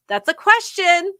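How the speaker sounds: flat, pointed statement; emphatic teacher correction. Retold or imitated. Teacher telling students it's a statement. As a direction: spell it out to students. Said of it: "I'm like".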